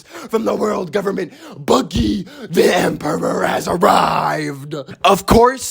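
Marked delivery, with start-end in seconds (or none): 1.6-4.7 slow, drawn-out proclamation; grand announcement. Pretend. Fan proclaiming his favorite pirate, grand slow announcement. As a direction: herald the emperor's arrival, very drawn out.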